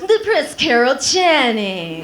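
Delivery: lisping sad sign-off; slushy lisp. Pretend. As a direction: droop the name with a lateral lisp. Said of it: "make a lateral lisp and say anything sad".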